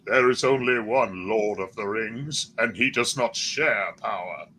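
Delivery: slow wizard pronouncement; Gandalf impression. Friend attempting a Lord of the Rings wizard, slow intoning. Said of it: "I sound more like fucking Saruman".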